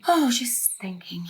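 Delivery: slow breathy whisper. Acted. Mother answering her daughter by the frozen lake, slow whisper. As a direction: drift off, barely voiced.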